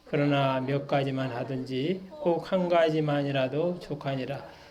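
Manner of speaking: measured, even Bible reading; scripture reading. Acted. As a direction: read the passage out evenly to the congregation. Reads the Bible passage aloud.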